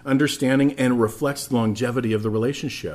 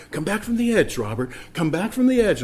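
higher, coaxing motherly voice; soothing mom; 7 semitones higher than usual. Retold or imitated. Mom calming her raging little boy, lightly voiced. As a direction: gently talk the child down off the ledge. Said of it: "my mom would try and talk me back".

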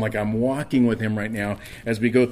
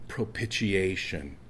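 usual speaking voice

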